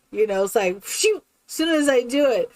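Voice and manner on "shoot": imitated zip of an ear flicking; higher, sudden swoosh; quick whoosh noise. Showing the cat's ear going flat, quick sound effect. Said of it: "one would go flat out to the side".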